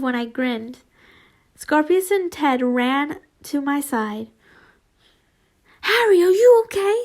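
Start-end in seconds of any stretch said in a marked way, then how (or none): 5.8-7.0 high, fast, concerned ask; worried question. A narrator's reading. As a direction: rush to check on Harry. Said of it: "they asked".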